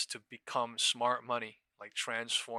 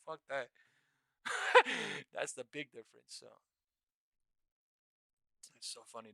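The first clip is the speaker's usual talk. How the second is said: usual speaking voice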